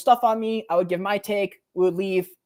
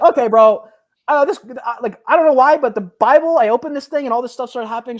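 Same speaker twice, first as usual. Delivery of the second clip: retold panic; 5 semitones higher, 8 dB louder than usual.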